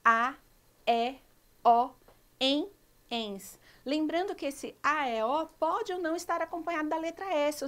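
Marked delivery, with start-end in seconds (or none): 0.0-3.6 a, e, o said loud and separate; teacher listing the endings; emphasised endings. Shown as a demonstration. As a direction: punch each ending clearly. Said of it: "terminam com".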